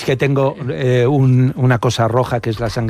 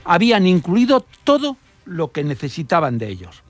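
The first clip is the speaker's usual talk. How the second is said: measured narration with emphatic pauses before key words; scripted radio storytelling; 3 semitones higher than usual. Acted. Radio reporter recounting an Italian spy case to listeners, storytelling delivery.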